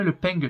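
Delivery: "ping", the southern French nasal ending of pain. Shown as a demonstration. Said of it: "je dis certains trucs, par exemple, le mot pain".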